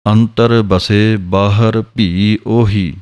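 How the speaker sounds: slow measured recital; scripture recitation. Shown as a demonstration. Teacher to students, reciting the scripture line slowly. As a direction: recite it slowly, each word weighed. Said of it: "ਦਰਸ਼ਨ ਕਰ ਲੈਣਾ".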